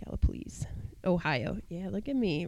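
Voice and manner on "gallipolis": whispered, careful "Gallipolis", ending like "lease"; remembered pronunciation. Real, not acted. Co-host correcting herself on the town name, remembered pronunciation of "Gallipolis". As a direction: say "Gallipolis" as GAL-uh-puh-LEECE. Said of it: "remembering how to pronounce things".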